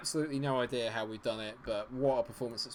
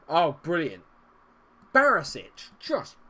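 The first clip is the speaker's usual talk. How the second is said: loud, biting sarcastic praise; 5 semitones higher, 10 dB louder, slower than usual. Real, not acted. Gamer mocking his own player's blunder, loud and sarcastic. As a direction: spit out the fake compliment.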